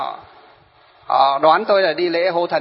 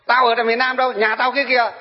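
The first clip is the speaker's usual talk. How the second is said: mock scornful reply; 5 semitones higher than usual. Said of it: "Thế nó bảo".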